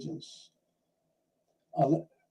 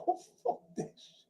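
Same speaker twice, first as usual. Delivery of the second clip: laughing quote; 7 dB quieter than usual. Retold or imitated. Retelling a man quitting the army.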